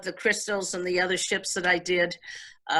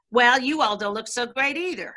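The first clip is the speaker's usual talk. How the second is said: sassy comeback; 5 semitones higher than usual. Retold or imitated. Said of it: "And then she'd go like this".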